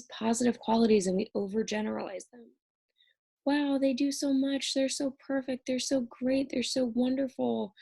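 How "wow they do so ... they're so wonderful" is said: mock smitten admiration. Lecturer voices someone idealizing an online partner, gushing in mock awe. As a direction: gush as if idealizing someone, held at a higher pitch.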